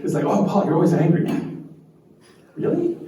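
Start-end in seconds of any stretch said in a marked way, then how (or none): 0.2-1.2 accusing colleague. Retold or imitated. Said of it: "something I was personally accused of". 2.5-3.0 high, disbelieving really; incredulous. Retold or imitated. Speaker answers being called angry with a high incredulous squeak.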